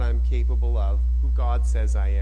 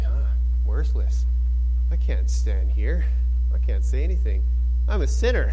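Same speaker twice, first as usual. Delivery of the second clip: defeated self-talk. Pretend. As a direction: sound like someone who believes the lies. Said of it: "You're just gonna start going".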